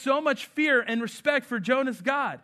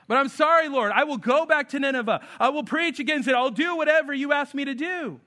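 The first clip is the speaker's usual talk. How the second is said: Jonah's repentant prayer, voiced higher and louder; pleading Jonah prayer; 4 semitones higher, 4 dB louder than usual. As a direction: beg God's forgiveness, voice lifted and earnest.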